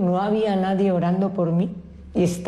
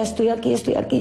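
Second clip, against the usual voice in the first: retold distant cries; 4 semitones higher, faster than usual. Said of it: "según decía".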